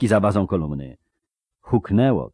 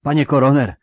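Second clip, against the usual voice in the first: louder, higher rasping address; hoarse croak; 7 semitones higher, 7 dB louder than usual. Acted. Terrified mercenary reporting to his commander, hoarse croak. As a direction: croak out the title in alarm. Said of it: "wycharczał jeden".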